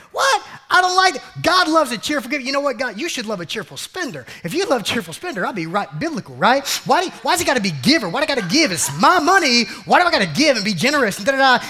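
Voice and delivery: hammed-up stingy protest; mock outraged complainer. Preacher mimics a believer refusing to give.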